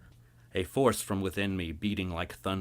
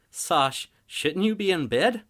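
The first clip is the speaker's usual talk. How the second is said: higher, lightly teasing parent voice; fond father; 12 semitones higher, 9 dB louder, slower than usual. Acted. Father asking his daughter why she's up, fond and teasing. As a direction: gently chide your little one.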